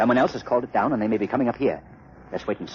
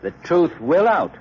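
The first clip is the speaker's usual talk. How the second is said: slow, louder, darkly ominous; ominous warning; 5 semitones higher, 4 dB louder than usual. Acted. Lamont warns Hardwick someone will hang, slow and ominous. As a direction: lean in and promise doom, slowly. Hero warns the suspect, music swells.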